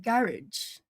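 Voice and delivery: drawn-out "garage" as GARR-ij; recalled pronunciation. Shown as a demonstration. Streamer realising how they said it, slow "garage" as GARR-ij. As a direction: say "garage" slowly, stress first, -ij ending. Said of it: "Is that how I pronounced it".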